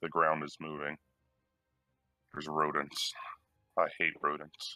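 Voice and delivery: whispering very quietly, hushed. Speaking in character to the group, whispering very quietly. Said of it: "I'm going to whisper very, very quietly".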